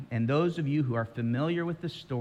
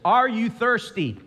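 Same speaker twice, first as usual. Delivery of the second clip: lion's question; 9 semitones higher, 7 dB louder than usual. Retold or imitated. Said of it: "and the lion says".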